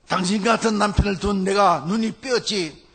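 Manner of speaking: retold angry outburst. Students answering the teacher on the wife's behalf, retold indignant outburst. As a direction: act out outraged students, half-hearted. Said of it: "격분해가지고 소리를 지릅니다".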